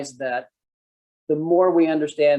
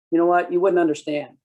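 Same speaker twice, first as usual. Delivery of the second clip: louder, condescending brush-off; mock dismissive; 4 semitones higher, 3 dB louder than usual. Cop brushing off a citizen, condescending. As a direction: dismiss them from above. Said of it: "what you're saying there is".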